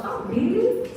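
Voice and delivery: high, rising, delighted "really"; happy surprise. Shown as a demonstration. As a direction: react high-pitched to good news. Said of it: "See, I'm happy".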